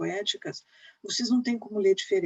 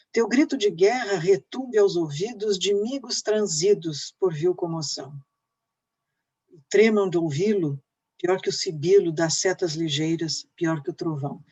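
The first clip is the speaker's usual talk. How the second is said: deliberate, stressed five-beat verse; teacher declaiming an epic poem; emphatic poem recitation. Acted. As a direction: declaim each verse with falling ends.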